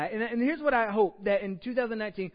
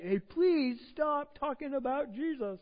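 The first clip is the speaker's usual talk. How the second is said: mock priest; 7 semitones higher, slower than usual. Mocking the priests' weak plea.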